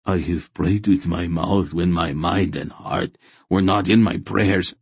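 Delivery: measured, penitent confession; guilt-ridden fanatic. Acted. Fanatic confessing hollow prayers, guilt-ridden. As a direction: confess it as a zealot would.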